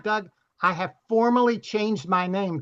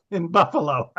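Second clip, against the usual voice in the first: chuckling through the words; laughing. Real, not acted. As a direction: laugh while saying it. Laughing at the punchline.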